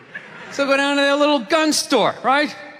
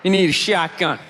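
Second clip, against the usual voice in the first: low redneck; 7 semitones lower, 5 dB louder than usual. Retold or imitated. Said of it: "Dude's just like".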